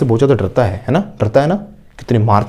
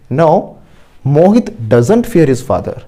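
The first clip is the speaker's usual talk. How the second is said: very slow, word by word, for students to repeat; slow model sentence; much slower than usual. Shown as a demonstration. Teacher modelling an answer for the class, very slowly. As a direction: spell each word out slowly like a dictation.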